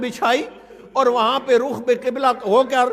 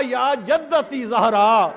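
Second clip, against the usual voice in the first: slow invocation; 2 semitones lower, much slower than usual. Retold or imitated. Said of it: "عجیب جملہ کہا".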